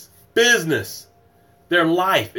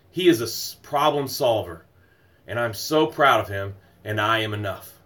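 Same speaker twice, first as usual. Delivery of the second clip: sincere gratitude demo; 2 semitones lower than usual. Shown as a demonstration. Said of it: "This is how it sounds".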